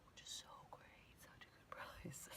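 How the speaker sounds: dry, whispered sarcasm about the price; hushed ironic aside; sarcastic whisper. Real, not acted. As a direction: mutter it with an ironic edge.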